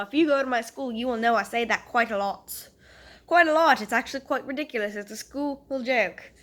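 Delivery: chatting on in a mock British accent; put-on British accent. Shown as a demonstration. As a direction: keep up an amateur British accent. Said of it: "I'll do this British accent as long as I can".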